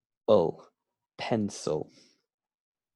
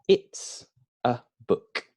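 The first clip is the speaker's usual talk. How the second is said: learner's answer. Shown as a demonstration.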